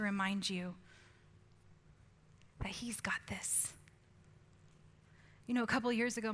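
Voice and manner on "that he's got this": slow, hushed reassurance; slow whisper. Acted. Preacher reminding hurting listeners God is near, whispering slowly. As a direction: breathe it out slowly and gently.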